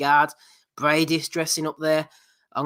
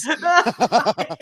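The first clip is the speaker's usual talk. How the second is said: mock disgust; 7 semitones higher, 4 dB louder, much slower than usual. Mimicking the viral clip.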